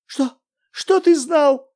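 terrified wife demands; horrified question. Acted. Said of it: "в ужасе спросила". (в ужасе, высоко и громко)

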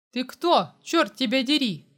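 loud angry question; angry demand. A narrator's reading. Man demands to know who the girl is, loud. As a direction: demand an answer, furious.

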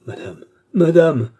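high, loud, drawn-out plea; pleading. A narrator's reading. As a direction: beg her desperately, slowly. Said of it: "supplia Cerise". (supplication aiguë, forte et traînante)

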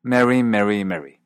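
"Mary, Mary, Mary" all identical as merry; one short e for every "Mary"; Canadian merger. Shown as a demonstration. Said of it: "se vuelve Mary".

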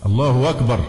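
الله أكبر run together as Allahu-wakbar; inserted waw glide. Shown as a demonstration. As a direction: turn the hamza of أكبر into a w. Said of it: "كأن في واو". (واو بدل همزة «أكبر»)

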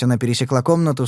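ordinary delivery

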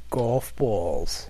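lightly voiced celebrity impression; understated impersonation, falling away; a hint of a film-star impression; Kevin Bacon. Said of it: "here's what Kevin Bacon sounds like".

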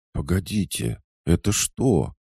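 high, baffled question; puzzled. A narrator's reading. Lyusya overhearing Volodya's praises of love, puzzled. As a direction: halt them in girlish bewilderment. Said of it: "озадаченно спросила Люси".

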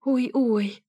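high little whimper of pain. A narrator's reading. Narrator nursing her hurt finger, small high whimper. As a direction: whimper over a bumped finger.

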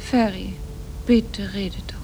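soft urgent whisper; pleading whisper. Acted. Wife begs silent husband in taxi, whispering. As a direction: breathe it, begging him to speak.

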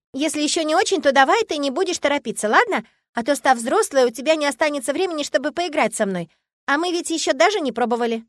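put-on a small girl earnestly persuading; confiding little girl. Little girl confiding to her new friend, earnest child voice. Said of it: "доверительно взяла меня за руку".

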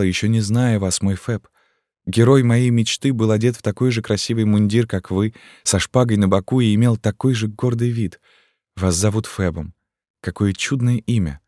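put-on a girl gazing up at her rescuer; adoring young gypsy girl. Esmeralda's adoring speech.

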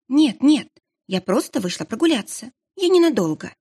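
high, quick nervous excuse; bright nervous cover-up lie; flustered. Acted.

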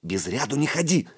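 thin squeak; squeaky. A narrator's reading. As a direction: pipe it up like a small boy butting in. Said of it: "пискнул появившийся сбоку мышь".

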